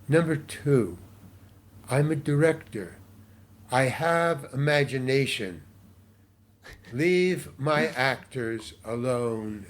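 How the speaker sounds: slow, measured stern rebuke from a director; retold stern director. Director rebuking a casting lady for touching actors, slow and stern. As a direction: lay down the law calmly, word by word.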